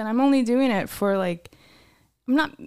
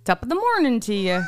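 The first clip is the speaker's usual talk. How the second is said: Irish accent; 3 dB louder than usual. Shown as a demonstration. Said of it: "let's say we're having lunch".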